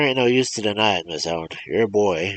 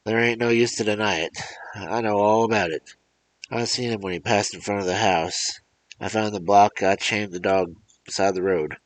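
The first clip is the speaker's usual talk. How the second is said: put-on loud, raised old man accusing; an angry old farmer barging in; crying out; 4 semitones higher, 4 dB louder than usual. Old man accusing the mother of theft, crying out loudly. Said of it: "he cried".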